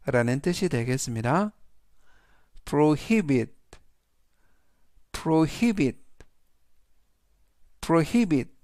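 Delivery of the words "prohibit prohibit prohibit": prohibit, said carefully as pro-HI-bit; teacher modelling prohibit; model pronunciation. Shown as a demonstration. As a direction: say prohibit clearly for repetition. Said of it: "라고 발음하시면 되겠습니다".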